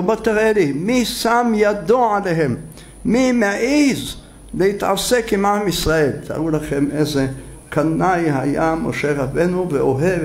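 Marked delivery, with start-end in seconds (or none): 0.0-6.1 zealous outrage. Retold or imitated. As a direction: demand who dares touch Israel. Moses outraged at Israel's oppressors.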